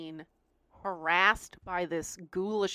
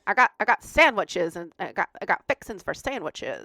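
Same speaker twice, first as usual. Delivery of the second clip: southern drawl; 3 semitones lower, 4 dB louder than usual. Retold or imitated. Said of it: "Southern drawl".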